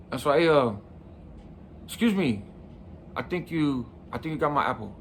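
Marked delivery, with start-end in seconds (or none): 1.9-5.0 soft, polite and a little softer; quiet calm voice. Retold or imitated. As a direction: ask gently, trying to keep it calm. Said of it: "In my, like, kinda quiet, calm voice".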